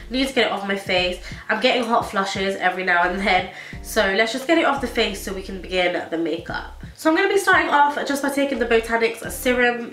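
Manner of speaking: normal talking voice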